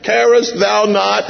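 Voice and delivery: mock panicked disciples; screaming to Jesus. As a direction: scream for help in the storm. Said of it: "they're screaming to Jesus".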